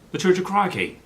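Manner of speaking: high, loud mock Aussie punchline; Australian accent. Husband landing his Steve Irwin joke in an accent. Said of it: "where did Steve Irwin go to church".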